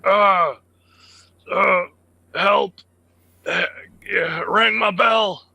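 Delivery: high, loud, dazed cry for help; man down shout. Acted. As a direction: shout confused and hurt, begging help. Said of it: "I'm just like".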